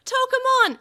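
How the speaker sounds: very loud, high scream of a name; anguished scream. A narrator's reading. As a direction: cry out in despair. Children screaming partners' names.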